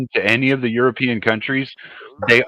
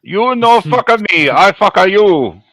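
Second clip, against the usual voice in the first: higher, slow, hammed-up broken-English threat; mock broken English; 7 semitones higher, 3 dB louder, slower than usual. Friend riffs on the revenge talk in mock broken English. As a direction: ham up a pidgin tough-guy warning, slowly.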